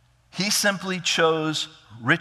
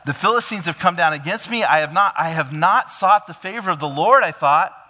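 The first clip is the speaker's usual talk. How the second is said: higher, louder pious pleading; pious justification; 4 semitones higher, 5 dB louder than usual. Retold or imitated. Saul quoting his pious excuse to Samuel, raised and earnest. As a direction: dress the excuse up as piety. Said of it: "couches this almost in spiritual terms".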